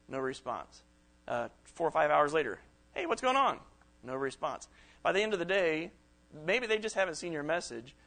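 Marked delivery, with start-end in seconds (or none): 2.9-3.6 higher, louder friendly nudge; eager follow-up. Retold or imitated. Speaker voicing a second text after no reply, higher and louder. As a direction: try again, a bit more insistent.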